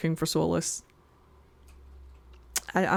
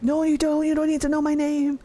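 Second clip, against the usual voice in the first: Solas voice; 6 semitones higher than usual. Retold or imitated. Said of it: "And Solas is like".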